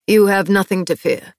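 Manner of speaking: softened. Acted. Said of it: "Castile's voice softened".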